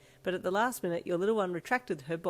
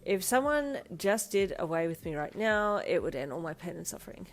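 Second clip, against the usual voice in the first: tired voice. Acted. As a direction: drag it out like you're worn out. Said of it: "she said in a tired voice".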